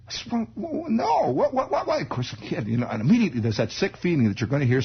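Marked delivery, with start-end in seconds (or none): 0.3-2.0 put-on high, eager little boy; eager kid voice. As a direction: squeak it out like a curious kid.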